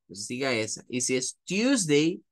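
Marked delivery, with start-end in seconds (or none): 1.4-2.2 American English. Shown as a demonstration. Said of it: "le va a sonar más a American English".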